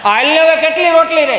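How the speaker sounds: high, hollered household question; hammed-up impatient husband's call. Husband asking wife how many rotlis remain, impatient.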